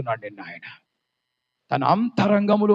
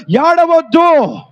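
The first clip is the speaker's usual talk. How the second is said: slow, tender plea; 8 semitones higher, 3 dB louder, much slower than usual. Acted. Jesus's word to the widow.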